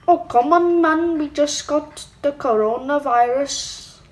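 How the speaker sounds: badly faked Chinese accent; terrible Chinese accent. Gamer retries the complaint, in badly faked Chinese accent. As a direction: attempt a Chinese accent and miss. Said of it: "My Chinese impression is terrible".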